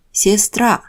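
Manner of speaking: сестра with stress on -тра; stress on the last syllable. Shown as a demonstration. Teacher models сестра for beginners. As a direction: say сестра as ses-TRA. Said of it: "Letters marked in red indicate stressed syllables".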